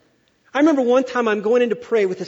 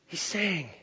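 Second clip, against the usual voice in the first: much softer, downcast; sad and quiet; 4 semitones lower, 10 dB quieter than usual. Shown as a demonstration. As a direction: let it sink like a man in sorrow. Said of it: "when he was down".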